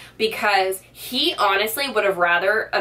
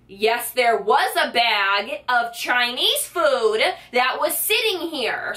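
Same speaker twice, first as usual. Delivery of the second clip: mild mock screaming; 4 semitones higher, slower than usual. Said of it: "like, screaming".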